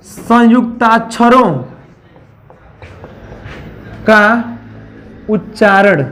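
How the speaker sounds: slow, word by word for writing down; slow dictation. Shown as a demonstration. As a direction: dictate each word slowly with pauses. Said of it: "अगली लिखिएगा". (धीरे-धीरे लिखवाते हुए)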